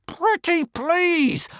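a loud stage whisper, drawn out slowly; boy begging his dragon, drawn-out loud whisper. A narrator's reading. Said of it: "in the loudest whisper he could whisper".

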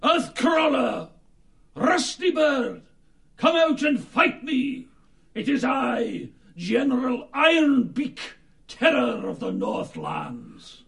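loud raven battle cry; boastful raven calling out a foe; calling out a challenge. Acted. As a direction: shout it across the rushes. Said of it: "cawing aloud".

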